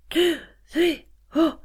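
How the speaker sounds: high, gasped counting; inflating with each number; counted in-breath. Shown as a demonstration. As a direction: count on sharp inhales. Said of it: "and breathe".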